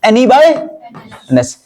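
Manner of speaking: N E by N S drawn out very slowly; slow formula dictation. Shown as a demonstration. Teacher repeating the formula for students, very slow. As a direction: spell out the formula slowly for copying. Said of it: "यही formula है".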